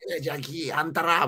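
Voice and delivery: lightly imitated Kochi dialect; playful Kochi dialect impression; native Kochi woman. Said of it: "そのお姉さんの喋りがネイティブ高知の".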